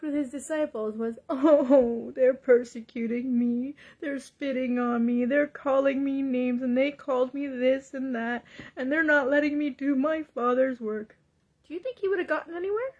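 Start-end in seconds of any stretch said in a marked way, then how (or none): 1.3-11.2 mock tearful complaining; self-pitying Jesus. Preacher imagining Jesus moaning to his disciples, mock tearful. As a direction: moan through a fake sob. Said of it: "imagine if Jesus as he walked".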